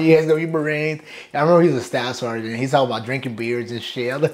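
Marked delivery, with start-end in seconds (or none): 0.0-1.0 mildly mimicked couldn't-care-less delivery; nonchalant instructor. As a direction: casually toss it off, imitating the instructor. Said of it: "Just, like, nonchalant".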